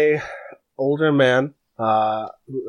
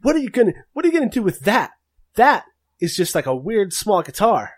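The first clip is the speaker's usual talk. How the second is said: put-on high childish voice, much higher; little orc girl; 9 semitones higher than usual. Orc granddaughter questions Adeline's guitar, high child voice. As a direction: pitch up like an eleven-year-old girl. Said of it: "She's like".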